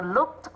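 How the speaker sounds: "looked" ending in a t sound. Shown as a demonstration. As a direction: say "looked" as one syllable, closing on "kt". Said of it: "phát âm là t".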